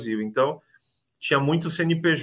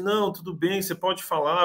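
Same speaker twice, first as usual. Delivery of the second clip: lightly voiced Amanda, higher and brighter in pitch; reassuring caller; 6 semitones higher than usual. Immigration agent on the phone reassuring the applicant, lightly imitated in a higher voice. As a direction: reassure him it's fine to talk, in a higher voice.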